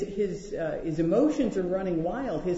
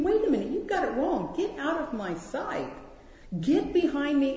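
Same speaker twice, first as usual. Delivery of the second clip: higher, fast stern rebuke; Jesus rebuking Peter; 7 semitones higher than usual. Pretend. Jesus rebuking Peter, a fast stern rebuke. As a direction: push Peter back, firm and quick. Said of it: "He's saying".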